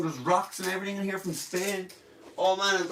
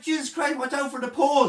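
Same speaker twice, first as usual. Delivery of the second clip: startled warning; 7 semitones higher, faster than usual. Retold or imitated. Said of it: "I'm like".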